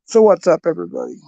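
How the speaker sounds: tired, strained voice; losing voice. Real, not acted. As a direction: voice going hoarse, worn out. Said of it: "I'm losing my voice already".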